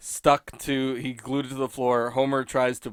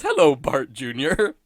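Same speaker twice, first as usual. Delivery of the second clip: mild, drawn-out dopey greeting; Homer Simpson; 4 dB louder than usual. Retold or imitated. Dim dad greets the haircut baby, lightly imitated, slowly. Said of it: "Homer ... goes".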